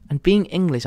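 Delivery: high-pitched proper English imitation; middle-class English accent. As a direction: try a friend's middle-class English line. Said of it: "what was it, the line she said".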